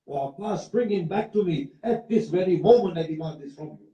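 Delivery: high-pitched retold outcry, not truly screamed; imitated threatening plea. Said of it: "she starts screaming and shouting and threatening Abbas".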